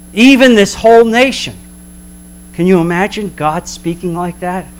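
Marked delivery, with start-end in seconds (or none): 0.1-1.5 slow, weighty rebuke; God's stern verdict, slow and heavy. Acted. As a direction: lay the charge on them slowly. Prophet voicing God's rebuke.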